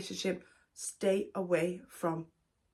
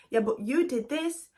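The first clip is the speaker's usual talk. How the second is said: mock defensive boyfriend; 4 semitones higher than usual. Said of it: "he'll turn around and be like".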